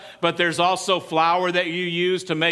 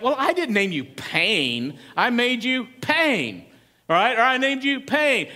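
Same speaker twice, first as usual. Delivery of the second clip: mock mother; 4 semitones higher than usual. Mother voiced explaining the name.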